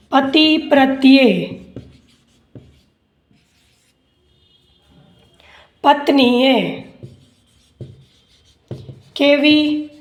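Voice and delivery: measured phrases with long gaps; slow dictation. Acted. Teacher dictating question and answer to students, slow dictation. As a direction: dictate piece by piece for note-takers.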